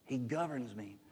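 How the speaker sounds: soft, hushed confession; reverent confession. Retold or imitated. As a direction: confess it quietly, in awe. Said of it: "he also said".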